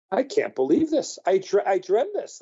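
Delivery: storyteller acting out amazement; retold disbelief. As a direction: relive being stunned by it, voice lifted. Retold disbelief walking away from guard.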